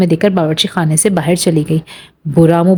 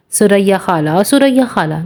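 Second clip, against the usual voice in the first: a playful, teasing imitation of his hesitant call, second call pitched up; mock imitation. Aunt Suraiya mimics Hasan's shy call, teasing. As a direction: mimic him teasingly, rising on the repeat. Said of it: "Suraiya ने हसन को नकल उतार के दिखाया।".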